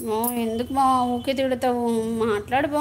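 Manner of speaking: wife softly coaxing her husband to talk; coaxing plea. Retold or imitated. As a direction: gently sweet-talk him into speaking. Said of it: "అని నేనే పలకరిస్తాను".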